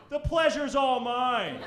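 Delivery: slow mock seductive line; mock smooth line. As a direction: deliver it slow like a smooth operator. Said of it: "and you say".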